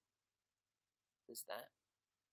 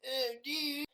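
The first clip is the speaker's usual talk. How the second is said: high, loud stoner drawl; 11 semitones higher, 8 dB louder, much slower than usual. Acted. Stoner hailing a friend, loud and high. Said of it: "He's a stoner".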